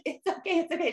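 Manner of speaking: high, quick mock reassurance; retold reassurance. Teller waving at the stressed mom, retold high reassurance. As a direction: call it over lightly, high.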